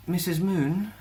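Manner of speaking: timid question. A narrator's reading. Alessa timidly asks.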